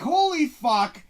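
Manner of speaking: loud, slow "holy" of amazement; stunned. Retold or imitated. Viewer at the start of the third act, loud stunned awe. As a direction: draw it out, floored.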